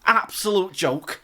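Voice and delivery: Scouse accent impression. Co-host repeating a pundit's complaint, in put-on Scouse. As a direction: draw it out in a dubious Scouse accent. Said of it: "just in a Scouse accent".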